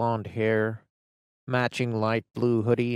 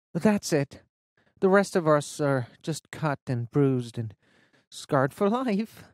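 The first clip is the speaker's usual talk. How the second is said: higher, slowing on scarred for life; bitter teen friend; 4 semitones higher, 3 dB louder than usual. Acted. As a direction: let the last words drag. Fiona sums up.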